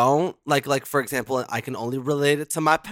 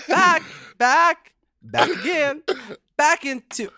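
a higher put-on British accent, faltering; mock British accent; 8 semitones higher, slower than usual. Reading the email again, fumbling the mock British accent. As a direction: try to get the British accent back. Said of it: "now I can't do it".

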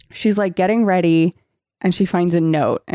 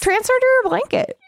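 squeaky-high playful wheedling; mock coaxing. Host pitches a silly idea to the character, high mock coaxing.

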